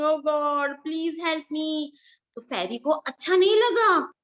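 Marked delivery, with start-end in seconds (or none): 0.0-1.9 mild pleading cry. Acted. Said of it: "The woodcutter was crying".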